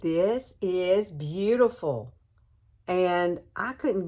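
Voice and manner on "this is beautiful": slowed, awed disbelief; amazed reaction. Retold or imitated. To her viewers, replaying her ladies' night surprise, amazed. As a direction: replay the wow moment, drawn out. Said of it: "I was like".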